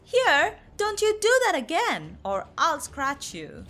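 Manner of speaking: a caged tiger warning his neighbour off, crossly. Acted. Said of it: "Tamba is cross".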